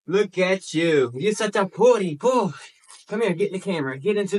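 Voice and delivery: high cooing pet voice. Real, not acted. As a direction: coo at a pretty dog. Cooing at dog.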